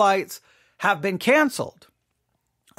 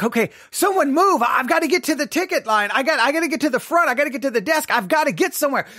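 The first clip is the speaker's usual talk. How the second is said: panicked rush; 4 semitones higher, faster than usual. Retold or imitated. Frantic traveler in packed airport.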